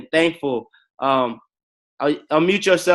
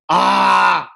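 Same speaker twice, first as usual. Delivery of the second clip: emotional gasp; 4 semitones higher, 6 dB louder than usual. Real, not acted. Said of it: "I'm emotional".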